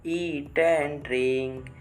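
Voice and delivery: slow singsong chant, words held on level notes; rhythmic poem recitation. Shown as a demonstration. Teacher reciting once again for the children, slow rhythmic chant. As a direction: chant the verse in steady, drawn-out rhythm. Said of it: "we have to recite the poem".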